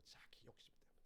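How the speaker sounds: hushed whispered aside; whispered aside to the congregation. Real, not acted. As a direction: drop to a whisper. Quiet aside after outburst.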